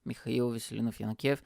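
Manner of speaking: quick run-through of a long name; rapid, in one breath; said fast. Shown as a demonstration. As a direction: rattle the full name off quickly. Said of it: "I always say it fast".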